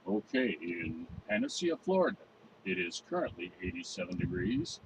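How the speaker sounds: lightly done TV weather report; weatherman voice. Acted. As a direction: read it like a local forecaster. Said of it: "I switched to my weatherman voice".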